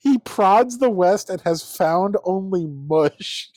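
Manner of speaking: slow, lightly voiced stuffy old pundit reading aloud; pompous old fat columnist. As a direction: read it like a smug old editorial writer, slowly. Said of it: "I think it's an old fat guy".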